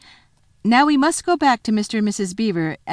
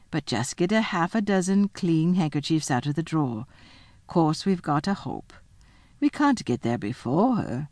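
lightly voiced, unhurried motherly reassurance; a hint of a practical, soothing housewife; calm Missus Beaver. Missus Beaver reassures Susan, lightly voiced calm.

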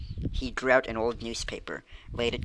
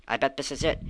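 a touch higher, eager; excited cry; 3 semitones higher than usual. Acted. Benny finding the locker, a mild excited cry. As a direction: point it out with glee. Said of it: "he cried".

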